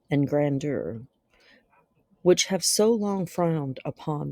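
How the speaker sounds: measured, dramatic reading with long pauses; gothic story narration. Acted. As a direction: narrate a dark classic tale, letting phrases hang. Reads a Gothic tale aloud.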